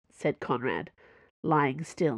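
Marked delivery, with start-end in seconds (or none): none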